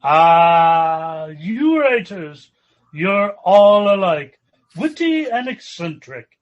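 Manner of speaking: a loud, hearty, booming exclamation. Acted. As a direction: boom it out like a jovial guest. Guest's hearty booming reaction.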